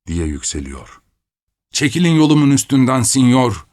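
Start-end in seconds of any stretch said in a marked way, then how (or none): 1.7-3.7 loud, raised-pitch command to get out of the way; shouting at the knight. A narrator's reading. Narrator shouting at the knight to clear the way. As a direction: bellow it at the knight blocking the path. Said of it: "diye avaz avaz bağırıyorum".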